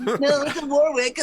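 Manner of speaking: loud, high-pitched retold exclamation; excited retort. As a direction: blurt the correction out, playfully overdone. Retells own excited reply in elevator.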